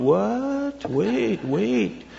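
high, startled "What? Wait, wait"; crowd's baffled what. Retold or imitated. Crowd balking at Jesus' words, high startled protest. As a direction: stop them short in disbelief. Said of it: "people are going".

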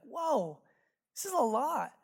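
mock amazed, high falling whoa; overwhelmed reaction. Imagined audience reacting, overwhelmed.

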